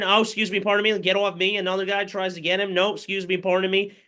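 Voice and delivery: light comic voicing of the ball carrier; mock polite runner. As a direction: voice the runner apologising past defenders. Runner voiced dodging tacklers.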